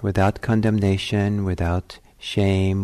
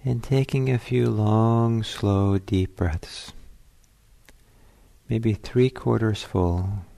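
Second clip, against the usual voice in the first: calm, unhurried meditation guidance with long pauses; spacious, leisurely phrases that leave room to breathe; guided meditation. Real, not acted.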